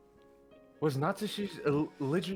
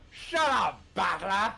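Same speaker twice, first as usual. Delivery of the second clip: shout; 5 dB louder, slower than usual. Acted. Acted shout at Battler.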